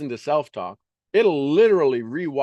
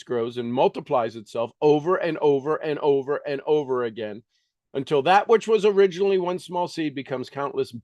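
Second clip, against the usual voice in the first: quick, earnest reading aloud from a self-help book; reading a self-help classic aloud. Acted. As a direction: read the passage briskly like scripture.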